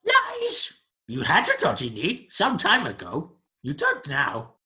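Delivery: high, loud creature outburst; accusing creature. Acted. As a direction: shriek the accusation, then demand an answer. Creature accuses player of lying.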